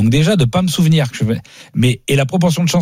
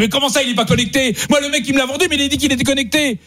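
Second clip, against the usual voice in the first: high, indignant disbelief, much higher; outraged disbelief; 11 semitones higher than usual. Retold or imitated. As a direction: squeak it out in shocked protest. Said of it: "J'ai dit". (incrédulité indignée, voix bien plus aiguë)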